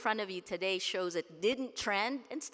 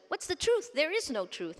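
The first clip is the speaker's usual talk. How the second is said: a high, lost cry of confusion; mock despairing question; bewildered citizens; 9 semitones higher, 4 dB louder than usual. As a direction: voice everyone shrugging at the truth. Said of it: "everyone looks around and says".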